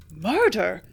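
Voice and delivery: shocked gasp. A narrator's reading. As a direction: catch your breath on the word. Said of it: "I gasped".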